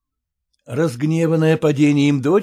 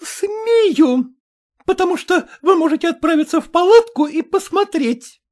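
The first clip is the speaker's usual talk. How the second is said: very high, louder, defiant; defiant retort; 14 semitones higher, 5 dB louder than usual. A narrator's reading. Maternitskaya defies the mother, angry. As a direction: throw it back at her.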